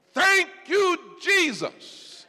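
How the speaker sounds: high, loud, joyful thanks; ecstatic praise. Real, not acted. Preacher praising, high and loud. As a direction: cry out thanks in rapture.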